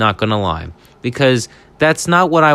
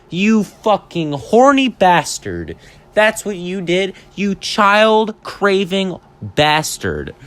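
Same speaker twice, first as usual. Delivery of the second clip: accusing insult; 5 semitones higher, slower than usual. Acted. Insulting the attorney in mock interrogation.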